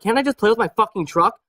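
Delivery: cool, unbothered, no yelling; calm defiance. Shown as a demonstration. Toddler staring down preschool teacher: calm defiant reply. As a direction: say "Can't I just play with my fucking truck?" evenly, staring her down. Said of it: "I just look at her, I'm like".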